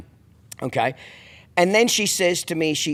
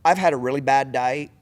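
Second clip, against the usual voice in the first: polite and calm; 4 semitones lower, 4 dB quieter than usual. Retold or imitated. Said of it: "What I should have said to her".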